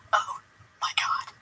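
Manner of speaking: breathless, whispered disbelief; shocked whisper. Retold or imitated. Reading the rejection over her friend's shoulder, a shocked whisper. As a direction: barely voice the words in shock.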